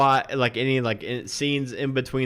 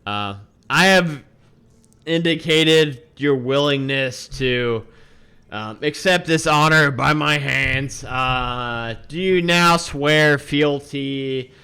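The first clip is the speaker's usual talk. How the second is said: formal ceremonial speech; 3 semitones higher, 4 dB louder than usual. Acted.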